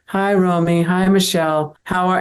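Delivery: a hint of the shy classmate saying hi; character voice. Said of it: "they just turn it on like that".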